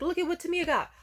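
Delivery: high, loud mom shouting with joy; joyful screaming. Retold or imitated. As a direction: shout it out in pure excitement. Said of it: "she was screaming, but in, like, actual joy".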